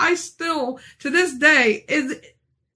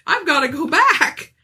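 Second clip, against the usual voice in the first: laughing disbelief; 4 semitones higher, 4 dB louder than usual. Real, not acted. Laughing disbelief at going back.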